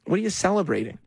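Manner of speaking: lightly mock a challenge to the crowd; mock questioning. Host mimicking candidate to the crowd, mildly indignant question. Mocking candidate's speech, first take.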